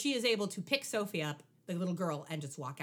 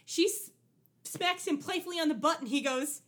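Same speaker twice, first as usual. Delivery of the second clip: ordinary delivery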